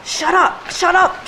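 "Shut up" yelled high and loud; angry shout. Acted. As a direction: bark "Shut up" at the lover in a rage. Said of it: "Notice how iambic it is".

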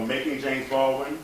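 rising, puzzled echo of the title; puzzled audience question. Retold or imitated. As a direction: ask it like a confused crowd. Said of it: "Everyone go".

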